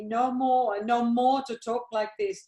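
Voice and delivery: loud, anguished plea to drop the subject; pleading outburst. Acted. Mother loudly begging her daughter to stop talking, pleading.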